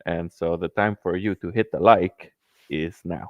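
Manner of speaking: lightly put-on persona delivery; in-character persona. Caller in character tells chat to hit like, lightly performed. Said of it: "He got back into character".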